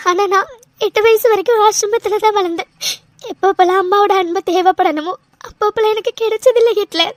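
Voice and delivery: steady tearful voice, sniffling between phrases; a light weepy telling of missing her birth mother; crying. Acted. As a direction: keep the tears under every line. Cries through her story.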